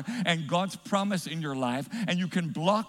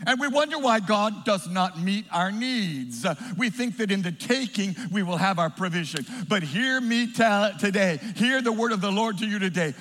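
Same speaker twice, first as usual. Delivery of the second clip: emphatic, slightly raised sermon delivery; forceful preaching; 3 semitones higher, 4 dB louder than usual. Real, not acted. Preacher declaring God's word on provision, emphatic preaching. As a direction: proclaim it to the whole congregation.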